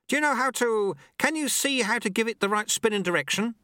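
high-pitched, pressing question; urgent sweeper. Acted. Sweeper checking apprentice knows the spin, urgent. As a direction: call out to the apprentice.

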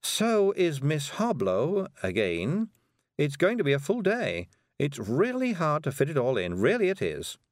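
high, fretful character voice; Miss Level, mildly overwhelmed. A narrator's reading. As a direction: plead how hard it all is, up high. Miss Level, overburdened, in story.

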